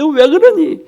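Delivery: hammed-up reproach, drawn out the second time; mock scolding. Pastor imitating a scolding God he says never comes, mock scolding. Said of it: "야단치시지 않습니다".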